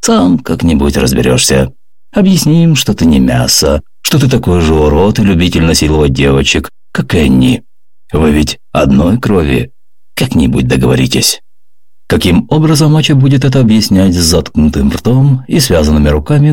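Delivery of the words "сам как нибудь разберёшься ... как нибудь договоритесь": ominous. Acted. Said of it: "зловеще произнёс".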